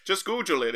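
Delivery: "Google" said as "GOO-jul"; mispronouncing Google. Acted. Expert insisting to host it's normal, mispronounced. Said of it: "are you insisting on saying Google".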